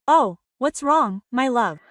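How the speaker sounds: slow, sugary fake sympathy; mock tender. A wife pampering her sick husband, sweetly fake. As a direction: coo over him like a caring wife. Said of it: "you tell him".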